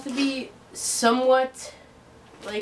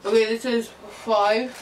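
cheeks stuffed full. Real, not acted. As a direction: mouth crammed with marshmallows. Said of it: "marshmallows in your mouth".

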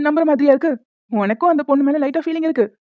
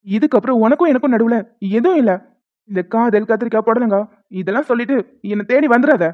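staged angry breakup. Pretend. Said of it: "சண்டை போடுற மாதிரி".

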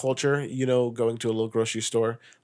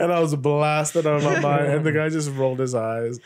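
laughing while talking; 2 semitones higher than usual. Real, not acted. Telling funny story laughing.

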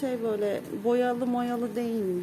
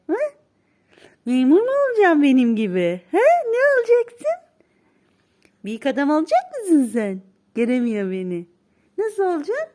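put-on baby talk; 6 dB louder than usual. Quizzing the baby on careers.

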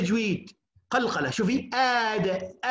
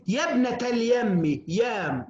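drawn out, slow classical recital; slow, stately recital of a classical line; slow recitation; slower than usual. Shown as a demonstration. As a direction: recite it slowly like old poetry. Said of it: "حتى في العرب يقولون".

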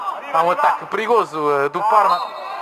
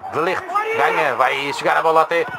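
explosive goal commentary; 8 semitones higher than usual. Real, not acted. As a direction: scream the goal to the stadium. Juventus equaliser goal call.

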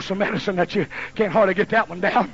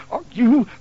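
slow, higher scolding between blows; a hint of a fed-up mother; 7 semitones higher, 3 dB louder, slower than usual. Mother scolding her son while beating him, mock stern. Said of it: "And she went".

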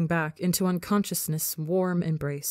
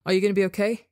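desperate question; 3 semitones higher, 4 dB louder, much faster than usual. A narrator's reading. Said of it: "asks Sisson desperately".

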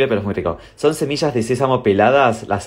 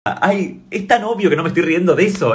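exasperated retort; 6 semitones higher than usual. Retold or imitated.

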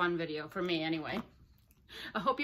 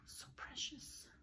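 slow, hushed whisper; real whispered adoration; adoring whisper; 5 semitones higher, 16 dB quieter, slower than usual. Real, not acted. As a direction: whisper it slowly, as if cooing over something tiny. Adoring the tiny doll hat.

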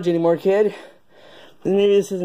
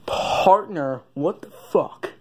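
lower cowboy voice try; 2 semitones lower, much slower than usual. Acted. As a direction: settle it down into the cowboy's own voice. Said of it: "That's closer".

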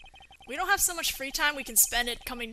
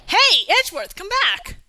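loud, raised-pitch shout; calling out; 7 semitones higher, 13 dB louder than usual. Acted. Calling Edgeworth back in detention, shouting. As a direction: shout after someone walking off. Calling after someone leaving.

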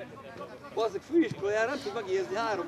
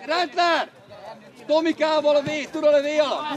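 loud, slightly raised instructions; shouted coaching; 3 semitones higher, 7 dB louder than usual. Real, not acted. Coach ordering Milán and Rendler back, shouting. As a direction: call firmly across the pitch.

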